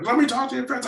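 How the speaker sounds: very high mock yell; retold parental nagging; screaming parent. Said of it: "they're screaming".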